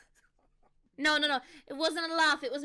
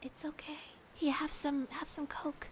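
whispered asmr role play; 6 dB quieter than usual. Pretend. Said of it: "A S M R roleplay".

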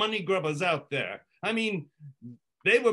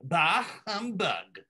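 slow humbug; slower than usual. Shown as a demonstration. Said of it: "demand that I say it".

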